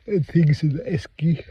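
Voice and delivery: words stretched through a yawn. Real, not acted. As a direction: talk mid-yawn, sleepy. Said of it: "so I'm yawning".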